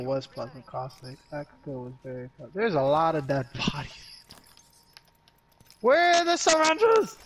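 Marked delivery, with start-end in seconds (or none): 5.8-7.2 high drawn-out question. Real, not acted. Searching for heals mid-fight.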